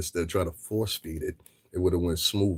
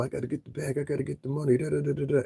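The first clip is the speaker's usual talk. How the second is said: higher mocking voice; mocking hustlers; 7 semitones higher, faster than usual. Mocking the culture's money chasers to his viewers. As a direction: sneer it like a money-chasing wannabe. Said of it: "run around talking about".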